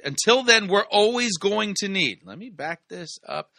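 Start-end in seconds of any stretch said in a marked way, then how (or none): 0.0-2.2 a louder, higher echo of the preacher's line; mimicking the preacher. Commentator echoing the preacher's words for viewers, louder. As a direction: repeat the preacher's punchline louder, hammed up. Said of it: "what he said".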